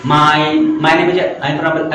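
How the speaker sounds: halting, broken-up self-introduction; faulty stage introduction. Shown as a demonstration. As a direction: stumble through the intro word by word. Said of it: "ऐसे बोलते, ऐसा नहीं".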